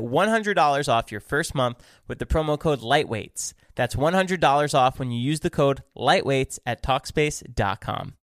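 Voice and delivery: steady podcast ad read. Acted. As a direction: read the sponsor spot. Host reads sponsor ad.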